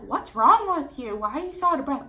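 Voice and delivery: mom worried on the phone. Retold or imitated. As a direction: mom on the phone hearing her out of breath, mild alarm. Mom's worried question on phone.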